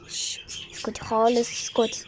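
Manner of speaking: a quick hushing whisper so the viewers won't hear; shushing whisper aside to daughter; hushed whisper. Real, not acted. Hushing her daughter while recording.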